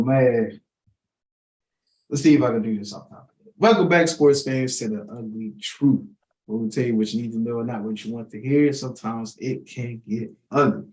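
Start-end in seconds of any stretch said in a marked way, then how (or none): 3.6-10.8 host's announcer opening; show intro. Acted. Host opening the sports show, announcer read. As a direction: welcome the listeners like a radio host.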